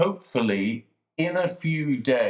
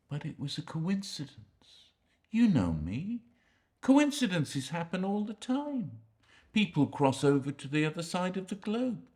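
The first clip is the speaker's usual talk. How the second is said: hushed pleading; 6 dB quieter than usual. Acted. Quiet insistent pleading to visitor.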